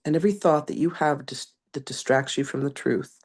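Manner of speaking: measured, gentle reading of a spiritual message; channeled message reading. Acted. Reading Magdalene's message to beloved ones, gentle spiritual address. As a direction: read it like a loving message from beyond.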